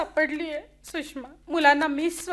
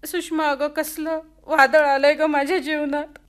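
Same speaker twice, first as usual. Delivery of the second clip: crying out her grief; 3 dB louder than usual. Acted. Wife tells friend of betrayal.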